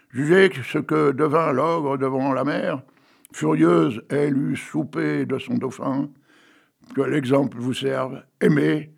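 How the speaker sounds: slow, measured verse recital; old poet reciting Hugo; poem reading. Acted. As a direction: read each line like a storyteller. Reads a Victor Hugo poem.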